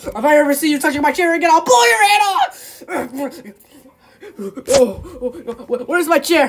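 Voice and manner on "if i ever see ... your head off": furious threat. Acted. Threatening over the chair.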